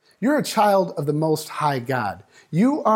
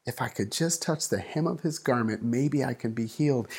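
hushed hopeful voice; 3 semitones lower, 5 dB quieter than usual. Retold or imitated. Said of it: "She said".

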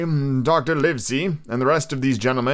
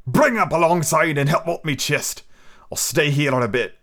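captain calling; 3 semitones higher than usual. Acted. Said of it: "he cried to the man".

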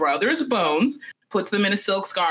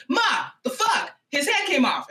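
high-pitched, alarmed outburst; shocked child; 8 semitones higher than usual. Retold or imitated. Little girl telling mom about her brother's head, shocked. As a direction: imitate a freaked-out kid calling for mom.

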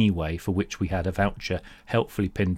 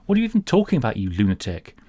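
exasperated; 3 dB louder, faster than usual. Acted. Exasperated at voucher.

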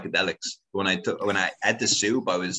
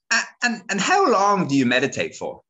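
much higher, prying cousin voice; nosy cousin; 13 semitones higher, 4 dB louder than usual. Retold or imitated. Cousin voiced in retold grilling.

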